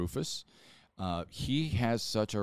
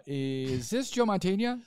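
much higher and slow, hopeful; retold eager question; 10 semitones higher, 3 dB louder, slower than usual. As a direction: ask it like you can't believe who answered. Retold phone call question.

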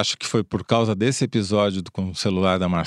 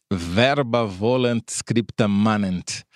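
English accent; much slower than usual. Shown as a demonstration. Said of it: "Falei com sotaque inglês".

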